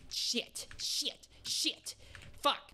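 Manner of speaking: hushed, breathless "Shit" under the breath; whispered curses. Real, not acted. Streamer whispering curses through a tense jump. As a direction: whisper the curse so you don't jinx it.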